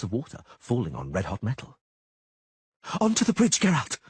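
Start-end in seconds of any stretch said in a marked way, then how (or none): 3.0-4.0 high, loud desperate shout; sorceress yells. Acted. Yennefer yells for Geralt to reach the bridge, loud high shout. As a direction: yell to him across the rockfall. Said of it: "the sorceress yelled".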